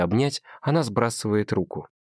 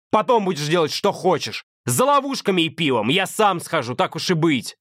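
much higher, harsh and domineering, slowing to hammer it home; furious boyfriend; 10 semitones higher than usual. Acted. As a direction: order her about, disgusted. Adam's voice keeps shouting.

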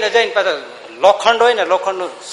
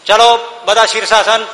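laughing command; 3 semitones higher, 6 dB louder than usual. Acted. Servant orders headstand, laughing.

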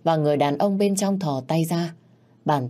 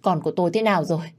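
anxious; 2 semitones higher, much faster than usual. Acted. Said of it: "Bà Mai sốt sắng".

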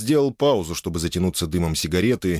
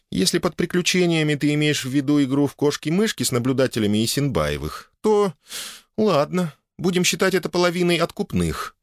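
high, teasing feminine voice; playful wife; 10 semitones higher than usual. A narrator's reading. Wife bargaining with husband over adventures, playful high voice. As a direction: concede playfully in a much higher voice.

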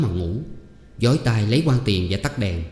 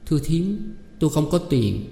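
higher, helpless plea; resigned girl; 6 semitones higher than usual. A narrator's reading. Girl tells aunt she has no money, resigned. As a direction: give up, begging mercy.

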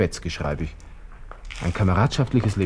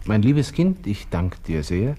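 pompous letter recital; 3 semitones higher than usual. Acted. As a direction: declaim the first line like a solemn letter. Drafting a farewell letter aloud.

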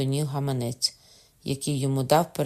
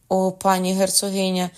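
raised, urgent appeal; imploring cry; 5 semitones higher, 4 dB louder than usual. A narrator's reading. Father turning to the duchess, imploring cry. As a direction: call out higher to beg for help. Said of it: "крикнув батько".

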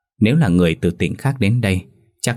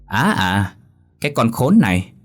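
teeth-gritting rage; 3 semitones higher than usual. Acted. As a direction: scold her through gritted teeth, speeding up near the end. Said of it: "nghiến răng nói".

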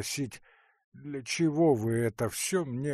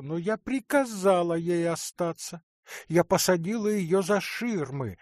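higher, rushed and self-assured; hasty aunt; 7 semitones higher, 5 dB louder than usual. Acted. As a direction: hurry to excuse the wife. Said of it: "поспешно проговорила".

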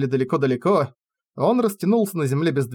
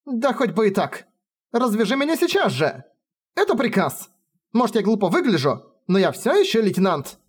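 indignant order; 7 semitones higher than usual. Acted. Bound lieutenant demanding release.

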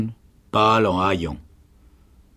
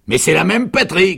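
high, exasperated sergeant's shout; 10 semitones higher, 8 dB louder than usual. A narrator's reading. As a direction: shout it as self-evident. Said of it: "cria le sergent". (cri fort et aigu du sergent)

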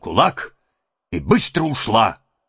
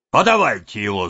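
властный окрик; 4 dB louder than usual. Acted. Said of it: "закричал голова".

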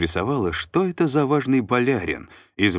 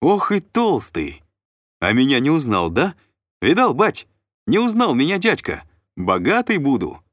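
excited; 9 semitones higher, 6 dB louder than usual. A narrator's reading. Artyom keeps shouting joyfully.

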